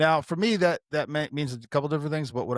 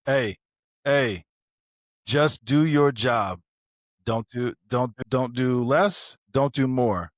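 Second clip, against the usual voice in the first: slow, firm, louder coach voice imitating Stoll; mentor pep talk; 5 dB louder, much slower than usual. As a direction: lay it down slow like a drill instructor.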